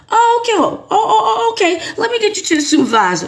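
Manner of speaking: high, laughing mock cheer; laughing fake agent. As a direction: pass them on with a giggle. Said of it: "They be like".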